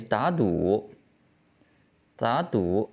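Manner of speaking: "da" rises like a second tone, then "du" dips; third tone becomes second. Shown as a demonstration. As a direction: model "da du" with rising "da" and third-tone "du". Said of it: "will change its tone to the second tone".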